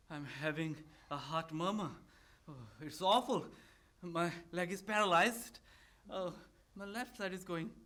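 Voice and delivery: weary, halting complaint with a sigh; exhausted. Acted. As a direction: groan out your ailments, worn out. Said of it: "Lomov entering exhausted".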